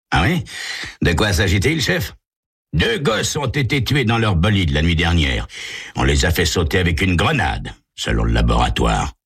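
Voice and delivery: brisk case briefing; police dialogue. Acted. Chief briefs detective McClary on the killings, lightly voiced.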